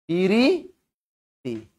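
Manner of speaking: পিরিতি very slowly, pi-ri... ti; slow village-style pi-ri-ti for পিরিতি; rustic pronunciation. Shown as a demonstration. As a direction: draw পিরিতি out syllable by syllable. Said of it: "এটাকে কি বলে?".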